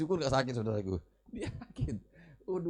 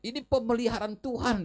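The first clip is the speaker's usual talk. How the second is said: a proud preacher quoted, pitched higher; proud pastor; 8 semitones higher than usual. Retold or imitated. Pastor claiming his shoes as God's provision, high and proud. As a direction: announce it like a triumphant claim. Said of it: "dia bilang".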